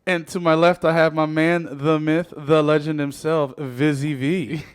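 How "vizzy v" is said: hype man intro. Pretend. Hypes up the co-host intro.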